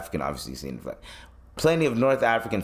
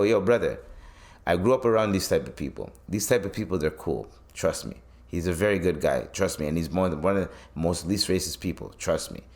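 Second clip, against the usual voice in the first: reassuring; 4 semitones lower than usual. Retold or imitated. Diplomatic reassurance to his boss.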